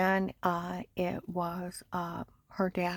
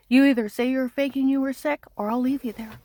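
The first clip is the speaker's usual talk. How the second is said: loud, higher mock demand; retold threat; 5 semitones higher, 7 dB louder than usual. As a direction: bark the ultimatum the agent gave. Agent's threat retold on phone.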